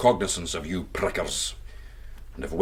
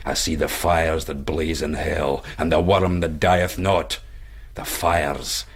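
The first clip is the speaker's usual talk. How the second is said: feigned hellfire vision; slower than usual. Pretend. Stranger faking a vision to frighten the pricker, slow and rising. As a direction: pretend to see hell in his eyes, building up.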